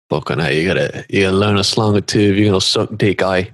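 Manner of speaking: quick mock Aussie-Brit slang; confused half-Australian, half-British put-on accent; muddled Australian-British accent. Friend advising on slang, mixed-up Australian-British accent. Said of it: "It's an impersonation of".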